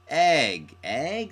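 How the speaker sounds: puzzled student asking egg; rising questioning egg, egg; mock puzzled. Shown as a demonstration. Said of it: "That's not onomatopoeia".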